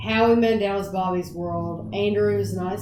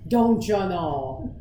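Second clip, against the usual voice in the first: imitating cartoon catchphrase; 2 semitones lower, slower than usual. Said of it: "Howie Mandel cartoon".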